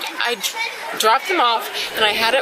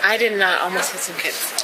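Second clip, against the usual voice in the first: slurred speech; 2 semitones lower than usual. Real, not acted. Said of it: "You're slurring your words".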